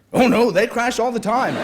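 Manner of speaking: high and loud, laughing it out; breezily amused at the danger; laughing cheerfully. A narrator's reading. Nick laughing as he tells the author planes crash, cheerful.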